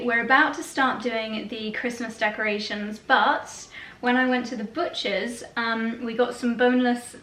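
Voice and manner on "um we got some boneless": while putting on lipstick. Real, not acted. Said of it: "can't talk and do lipstick at the same time".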